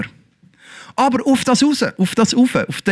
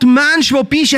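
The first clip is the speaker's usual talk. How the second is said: God's call; 7 semitones higher than usual. Acted. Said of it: "der Ruf von Gott".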